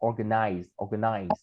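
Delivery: organize with a clear stressed "or"; OR-ganize, open stressed vowel; careful teacher model of organize; model pronunciation. Shown as a demonstration. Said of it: "mình sẽ đọc là or".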